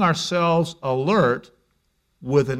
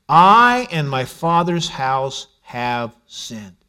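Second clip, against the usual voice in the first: humble confession; 2 semitones lower, much slower than usual. Retold or imitated.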